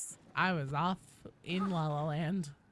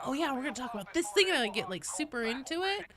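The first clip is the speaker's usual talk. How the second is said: excited; 6 semitones higher, faster than usual. Retold or imitated. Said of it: "when I get excited".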